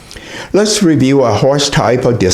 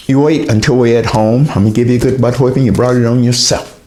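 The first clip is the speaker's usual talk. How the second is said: mock threat; faster than usual. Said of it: "the mother threatens the child".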